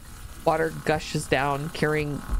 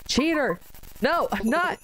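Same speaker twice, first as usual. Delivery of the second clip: accusing; 10 semitones higher than usual. Acted. Voicing argument.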